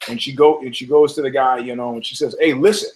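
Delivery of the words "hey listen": acted firm, angry ultimatum; mock-angry telling-off, punched endings; pissed-off woman. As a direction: lay down the law, mildly heated. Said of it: "now she's pissed".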